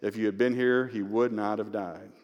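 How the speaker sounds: subdued grief, unaccusing; humble cry, no accusation. Acted. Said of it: "she is not chiding him or accusing him".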